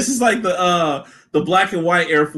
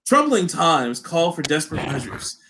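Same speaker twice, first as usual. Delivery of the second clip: commercial announcer. Pretend. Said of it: "It's like".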